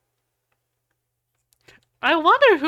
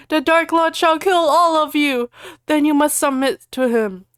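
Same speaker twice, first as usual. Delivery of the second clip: menacing; 6 semitones higher, 5 dB louder than usual. Acted. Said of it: "Snape ejaculated menacingly".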